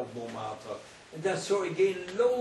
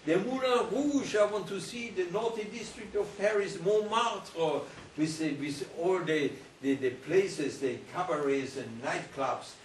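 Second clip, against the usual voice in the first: eager longing; 4 semitones higher than usual. Retold or imitated. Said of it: "I said to myself".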